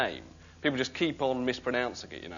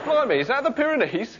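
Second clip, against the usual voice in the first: mock amazement; 12 semitones higher, 5 dB louder than usual. Mock gawping at distant view.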